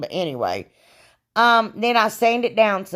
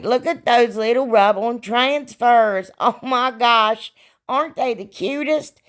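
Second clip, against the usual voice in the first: gushing; 4 semitones higher than usual. Real, not acted. Gushing over cute transfers.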